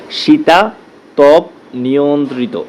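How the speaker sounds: slow, syllable by syllable শীতাতপ নিয়ন্ত্রিত; broken into syllables. Shown as a demonstration. Teacher to students, showing the spelling, slow and syllable by syllable. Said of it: "সিলেবলটা ভেঙে".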